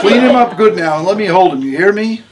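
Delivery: a tough, no-nonsense patient giving orders; Harmony's voice. A narrator's reading.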